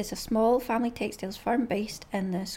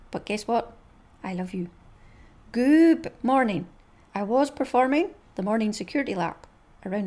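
dog's thoughts voice. Acted. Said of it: "they go a little bit like this".

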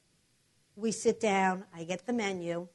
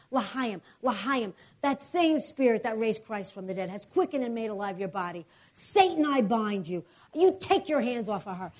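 preaching prayer. Retold or imitated. Prays again over body.

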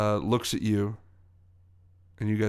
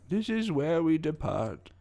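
put-on old woman voice; 5 semitones higher, slower than usual. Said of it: "the woman looks at you and she says".

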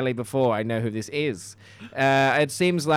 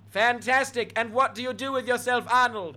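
high put-on receptionist voice; humouring the caller; 9 semitones higher than usual. Receptionist asks caller what he does, in high voice. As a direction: keep it pitched way up.

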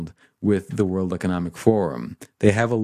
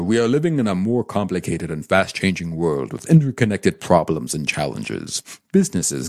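Klaus Schwab voice. Retold or imitated. Reading the forum's mission to chat as a mild German-accented executive. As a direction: read the text like a Bond-villain German executive, only lightly put on. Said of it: "I'll try to do my best Klaus Schwab impression".

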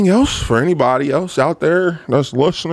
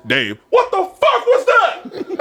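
much higher, slow shocked yell; boss yelling; much slower than usual. Retold or imitated. Boss hearing the forklift crash, startled slow yell.

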